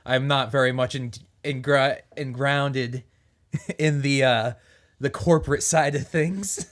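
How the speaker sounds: lightly southern city vagrant; southern accent. Acted. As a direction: keep a faint southern lilt. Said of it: "still talking in this accent".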